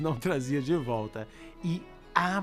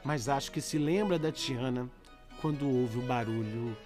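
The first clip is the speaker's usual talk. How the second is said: letter reading. Acted. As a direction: read the letter gently over music. Reads listener's letter over music.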